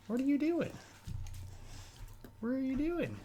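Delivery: very high, small cooing voice. Real, not acted. Streamer shows puppy to Kaylee, high baby-talk voice.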